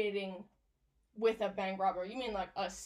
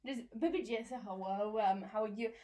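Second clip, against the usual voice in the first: silly dumb pet voice. Acted. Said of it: "I just talk like this and this and the dog".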